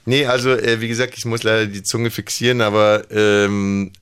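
cartoonish speech around a held tongue; holding tongue. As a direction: talk with the tongue pinned. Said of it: "irgendeine Comicfigur spricht doch so".

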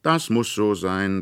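put-on a boy calling back stubbornly. A narrator's reading. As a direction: brush her off loudly. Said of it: "rief Fritz".

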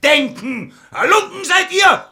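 rising to a furious yell; building to a shout. Acted. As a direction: explode at the servant. Prince screams at his servant.

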